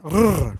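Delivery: put-on a rolled R trill for kids; rolled R sound. Shown as a demonstration. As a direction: trill the R like a teacher. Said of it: "Roll your R's at home".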